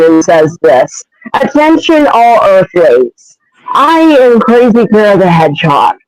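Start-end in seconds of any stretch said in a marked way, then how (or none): 1.3-5.9 lightly hammed-up invader's proclamation; Crazy Kira the Hedgehog. Invader on a mic to all the humans, proclaiming. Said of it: "pulls out a mic to possibly get all the humans' attention".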